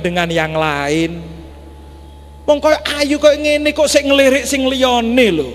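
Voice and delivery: put-on a touch of a vain young wife; boastful wife. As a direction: show off her beauty to the imam. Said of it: "nyeletuk begini".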